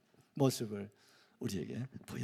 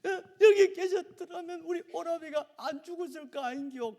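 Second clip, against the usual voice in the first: a loud, much higher Gyeongsang dialect cry; Gyeongsang dialect wail; 7 dB louder than usual. Retold or imitated. Martha, wailing in Gyeongsang dialect, reproaches Jesus for coming late. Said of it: "우리 경상도 말로".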